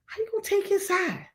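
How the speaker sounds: high, put-on petulant voice; whiny protest. Granddaughter complaining to grandmother, high petulant whine. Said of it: "I was like".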